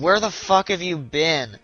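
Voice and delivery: slow, indignant retold holler; retold mild yell. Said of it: "like, yelling at him".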